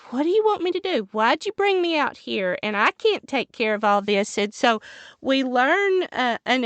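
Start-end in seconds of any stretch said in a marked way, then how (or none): 0.1-4.4 exasperated Moses. Retold or imitated. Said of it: "But Moses was like".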